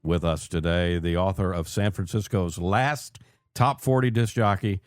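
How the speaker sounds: welcoming host intro over music; radio host. Acted. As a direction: bring listeners back into the show. Host return from break.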